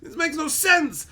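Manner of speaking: high-pitched exasperated wail; acted frustrated outburst; mad brain. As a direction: cry out why in rising disbelief. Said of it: "my brain gets mad".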